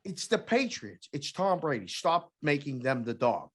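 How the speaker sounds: retold yell. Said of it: "he called us every name".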